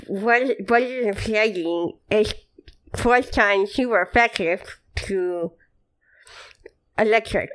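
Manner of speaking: slow, careful nerdy voice; nerd voice. Pretend. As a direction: push up your glasses and explain. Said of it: "Can you say that again in the nerd voice".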